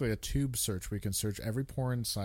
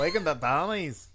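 higher-pitched mock Scottish; Scottish accent; 4 semitones higher than usual. Trying the movie title for his co-host, mock Scottish accent. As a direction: have one more go at a bad Scottish accent. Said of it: "That's an okay Scottish".

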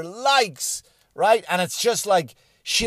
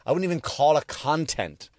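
usual speaking voice

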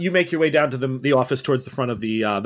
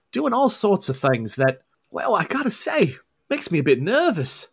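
Scottish brogue. Acted. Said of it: "this heavy Scottish brogue".

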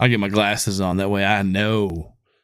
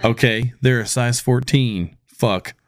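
laughing; slower than usual. Real, not acted. Laughing at own shoe size.

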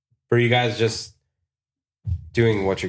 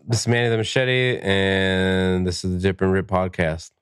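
unenthusiastic. Real, not acted. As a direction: read it like you don't care. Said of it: "now say it with confidence, like you care".

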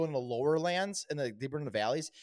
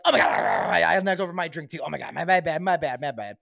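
mock apology; 2 semitones higher, 8 dB louder than usual. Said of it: "I'd probably be like".

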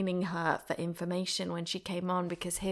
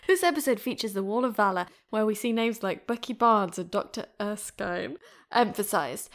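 louder retake; 5 dB louder than usual. Shown as a demonstration. Host retakes the intro line, now louder and brighter. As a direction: redo the line with more energy and volume. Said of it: "let me do this again".

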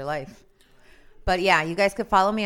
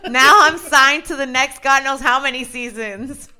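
excited laughing protest; 7 semitones higher, 12 dB louder than usual. Real, not acted. Protesting name taken, laughing.

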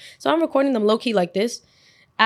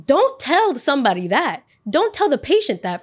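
slow scolding; 5 semitones higher, 3 dB louder than usual. Retold or imitated. Scolding the teacher from hospital bed.

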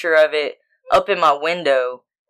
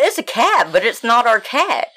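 high-pitched, hammed-up explaining; acted-out bewildered reply; retold exasperated insistence; 7 semitones higher than usual. Acted exasperated answer to partner.

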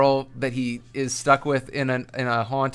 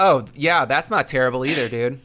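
sarcastic. Acted. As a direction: fake approval, dripping sarcasm. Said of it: "That's sarcasm".

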